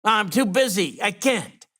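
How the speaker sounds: yelling back across the office that he's too busy; retold yell back. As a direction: shout back from the desk, lightly. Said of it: "And I yell back".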